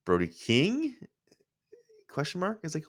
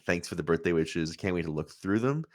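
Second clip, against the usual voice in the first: flat; 3 semitones lower, 3 dB quieter than usual. Retold or imitated. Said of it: "flatly being like".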